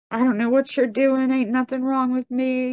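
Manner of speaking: re-enacted indignant denial; retold angry cussing. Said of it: "I began to cuss him".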